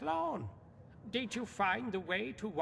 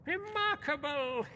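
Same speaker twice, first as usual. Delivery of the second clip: bursting out in raised delight; sudden higher, excited praise; 6 semitones higher than usual. Acted. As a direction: exclaim it like a thrilled collector. Scholar delighted by recovered artifact.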